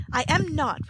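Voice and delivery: high, loud frightened protest; alarmed denial. A narrator's reading. Oliver denies Nancy before the crowd, alarmed and high. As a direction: deny it in panic. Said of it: "greatly alarmed".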